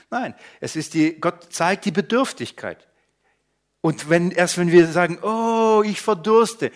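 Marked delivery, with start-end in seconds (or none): 5.2-6.7 high, louder cry of need. Retold or imitated. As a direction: call out as if dying of thirst. People crying out to God. (Aufschrei: ich verdurste, höher und lauter)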